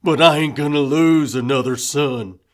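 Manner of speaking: loud, hard angry outburst; furious father. A narrator's reading. Grieving father raging about losing another son, loud. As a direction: rage at them for trusting townies.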